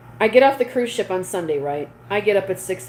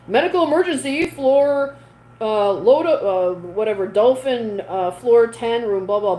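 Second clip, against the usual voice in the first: ship announcement; 4 semitones higher, 4 dB louder, slower than usual. Retold or imitated. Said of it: "this announcement's like".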